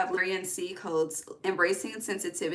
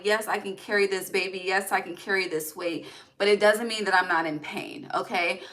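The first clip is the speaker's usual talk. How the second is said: ordinary talk, nothing marked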